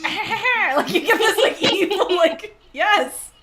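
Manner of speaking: high loud evil troll voice, laughing; cartoon troll. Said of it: "like a cartoon troll".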